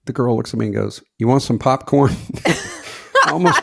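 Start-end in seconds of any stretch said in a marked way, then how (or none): 1.2-2.1 imitating someone too loud for a cinema; full-voice question where a whisper belongs; failed whisper. Date offers popcorn during the movie, too loud. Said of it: "some people can't whisper".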